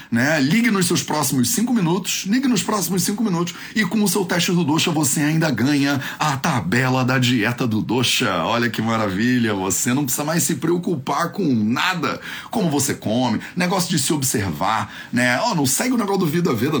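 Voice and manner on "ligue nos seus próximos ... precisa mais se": infomercial. Acted. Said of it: "aquela coisa de programa de televisão".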